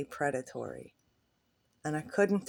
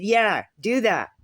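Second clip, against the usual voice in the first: exasperated retort; 3 semitones higher, 7 dB louder than usual. Retold or imitated. Exasperated reply to man.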